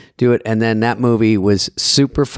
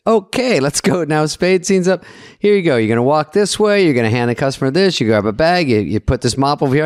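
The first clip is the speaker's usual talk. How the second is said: retold director; 4 semitones higher than usual. Retelling the director's brisk instructions.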